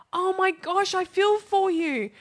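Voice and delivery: hammed-up, high and slow; high, slow mock sob of feeling; mock emotional gush. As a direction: overdo the heartfelt sympathy. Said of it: "you go".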